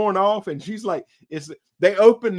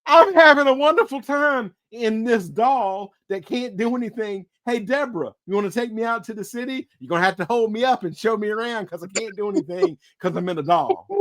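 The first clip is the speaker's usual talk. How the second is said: higher, fast cheerful spirit pleading; playful doll spirit; 4 semitones higher than usual. Pretend. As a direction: chatter eagerly as the trapped spirit.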